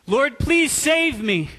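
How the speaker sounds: loud, slow desperate plea; cry for help. Acted. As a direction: beg God to save him, loud. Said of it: "he cries out to God".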